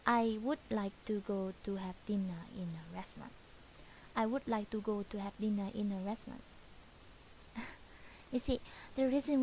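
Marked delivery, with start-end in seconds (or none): 0.1-3.3 Vietnamese accent with word endings dropped; mock Vietnamese accent, whispered and swallowing final sounds. Shown as a demonstration. Teacher whispers the restaurant line in a Vietnamese accent. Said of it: "The Vietnamese will say this like". 4.1-6.4 quick Vietnamese accent with endings clipped off. Shown as a demonstration. Teacher repeats the restaurant line fast in a Vietnamese accent. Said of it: "The Vietnamese will say this like".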